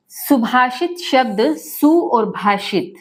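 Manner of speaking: सुभाषित split slowly into सु and भाषित; slow word split. Shown as a demonstration. Teacher splitting सुभाषित for students, slow and deliberate. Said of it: "ये दो शब्दों से मिलकर बना है".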